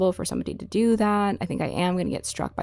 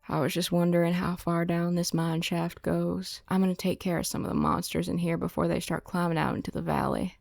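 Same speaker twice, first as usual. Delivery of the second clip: Clint Eastwood impression; 4 dB quieter than usual. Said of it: "What does Clint Eastwood sound like?".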